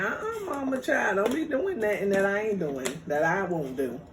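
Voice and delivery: wag a finger at mama; sassy scolding. Retold or imitated. Daughter lecturing her mom about going out. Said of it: "I'm like".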